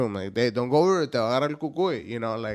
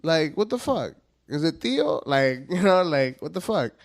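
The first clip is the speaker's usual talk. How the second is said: high, louder mock indignation; mock kid outrage; 9 semitones higher, 5 dB louder than usual. Little kid interrogating his parents about El Cucuy, high mock outrage. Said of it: "I was like".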